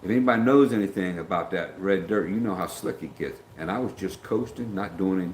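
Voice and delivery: Southern Georgia country accent. Shown as a demonstration. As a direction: talk like a Georgia local. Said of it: "I'm gonna talk like this 'cause I was in Georgia".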